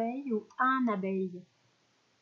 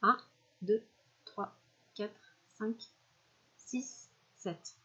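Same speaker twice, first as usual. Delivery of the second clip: counting words much softer; counting softly; 5 dB quieter, slower than usual. Shown as a demonstration. Teacher counting words with the class, softly. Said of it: "vous avez trouvé combien de mots".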